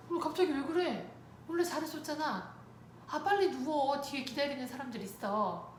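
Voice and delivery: re-enacted parent urging a child along; flustered mother. Mother to balking child in dentist chair, flustered.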